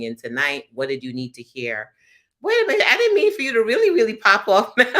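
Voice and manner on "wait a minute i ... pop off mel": high, loud, fast startled cry; host startled as her guest drops off; surprised. Real, not acted. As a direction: blurt it out in shock. Host surprised guest left call.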